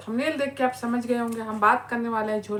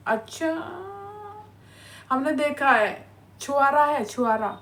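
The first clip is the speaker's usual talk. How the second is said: sarcastic disbelief; 3 semitones higher than usual. Real, not acted. Sarcastic reply to husband praise.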